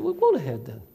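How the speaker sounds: understated sarcastic permission. Shown as a demonstration. Answering someone who does as they please, sarcastic. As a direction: lightly wave them off with dry irony. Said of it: "in a sarcastic tone".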